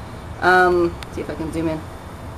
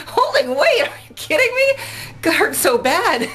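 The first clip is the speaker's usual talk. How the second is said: high, laughing disbelief; incredulous laughing reply; 13 semitones higher than usual. Retold or imitated. Answering a Twitter follower about holding weights, laughing disbelief. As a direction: laugh off the question like it's absurd. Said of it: "I'm like".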